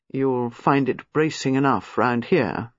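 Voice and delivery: a touch of grimness, slowed; dry and darkly knowing, unhurried; grim. Acted. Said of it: "a certain grimness in his voice".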